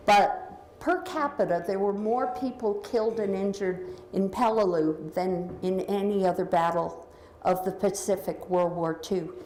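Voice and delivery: echoing voice in a large room; big hall echo. Real, not acted. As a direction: voice bouncing around a big hall. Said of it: "I'm echoing again".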